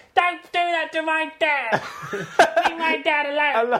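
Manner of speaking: very high, loud spoiled-brat voice. Retelling a character's reaction in a story: Frankie Fatface as spoiled kid. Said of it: "he's like a spoiled kid".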